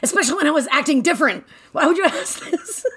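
high-pitched mock indignation; exasperated scolding. Imitating Mommy questioning Melody's questions, high exasperated voice. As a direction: complain in a hammed-up high voice.

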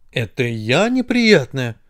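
slow, offended question. Acted. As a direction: draw it out, taking offence. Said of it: "обиделась нога". (обиженно, протяжно)

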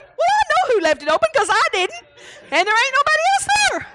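high, hammed-up indignant wife retort; mock indignant reply. Wife scolding husband over the back door, fast and high. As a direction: pitch it way up, fast and huffy.

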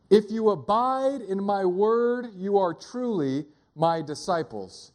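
slow, weighty Bible reading; scripture reading. Real, not acted. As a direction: read it out deliberately, phrase by phrase. Reads scripture aloud.

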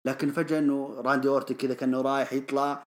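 usual speaking voice

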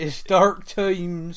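put-on slow, drawn-out West Country accent. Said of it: "in his best West Country accent".

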